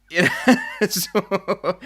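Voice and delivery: laughing through the words; words bubbling out on a real laugh. Real, not acted. Laughs at being called Stalin.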